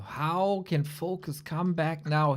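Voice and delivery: slow whispered question. Real, not acted. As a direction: hush it after the crushing loss. Grim moment after the loss.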